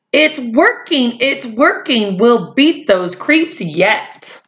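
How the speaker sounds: high, eager cheer; excited. Acted. Dilly cheering in escape.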